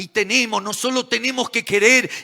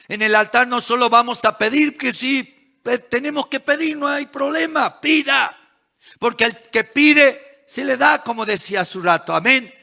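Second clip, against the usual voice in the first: impassioned sermon delivery, pitched up; forceful preaching; 3 semitones higher than usual. Real, not acted. Preacher urging church to give thanks at the altar, impassioned.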